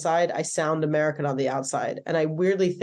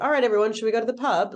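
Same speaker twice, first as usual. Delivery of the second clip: light mock British lilt, rising tune; mock half-English accent; 5 semitones higher, much faster than usual. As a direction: parody an American gone half British at the pub. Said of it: "like, distracting upward inflection".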